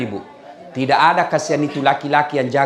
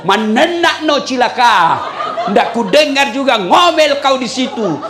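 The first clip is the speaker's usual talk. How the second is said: louder, slow gloating through laughter; 6 semitones higher, 4 dB louder, slower than usual. Retold or imitated. Husband gloating at nagging wife in the well, laughing. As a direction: savour the revenge, laughing.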